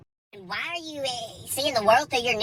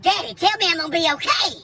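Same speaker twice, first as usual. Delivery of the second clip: put-on higher, pleading like a child; hammed-up frightened whine; mock scared plea; 6 semitones higher, 3 dB louder than usual. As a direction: beg daddy for comfort. Scared on bad trip, begging dad.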